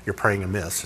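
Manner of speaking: low, hushed "praying amiss" in a prim voice; mock legalist. Preacher mimicking a legalist's verdict, low and hushed. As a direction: say "amiss" low and quiet like a scold. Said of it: "Here's the thing about legalists".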